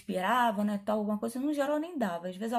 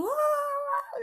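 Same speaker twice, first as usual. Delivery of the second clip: mock cheering; 3 dB louder than usual. Imitating everyone cheering at hospital.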